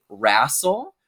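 wrestle said "rassle", with a flat A; older people's pronunciation. Retold or imitated. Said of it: "a lot of older people say".

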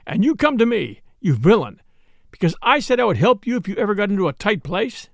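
mildly heated reproach; wounded indignation covering shame; indignant. Acted. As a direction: throw it at him as an accusation. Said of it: "turned indignantly to him".

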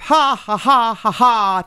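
a spelled-out ha ha ha, pitched high; mock laugh. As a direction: laugh on cue for the comics.

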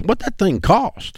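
slow and pointed, grandpa demanding the price; grandpa's blunt question. Retold or imitated. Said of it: "He goes".

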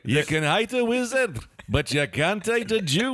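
stock Scottish accent, lightly put on; a hint of a Scottish brogue. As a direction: deliver it like a mock Scottish proverb. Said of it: "Classic Scottish phrase".

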